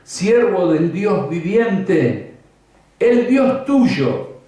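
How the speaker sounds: slow, high, sorrowful plea; a grieving king asking his friend if God saved him; sad voice. Acted. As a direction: drag out each phrase as if dreading the answer. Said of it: "con voz triste le dijo".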